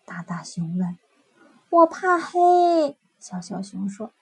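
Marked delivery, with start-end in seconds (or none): 1.7-3.0 slow, high, timid cub voice; a frightened little cub admitting it; scared little bear. Acted. Little bear fears the dark.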